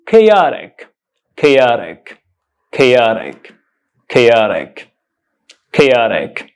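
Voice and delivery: chaotic said kay-OT-ik, stress on the second syllable; correct pronunciation. Shown as a demonstration. Teacher models the word chaotic for learners, correct pronunciation. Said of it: "The correct pronunciation of this word is".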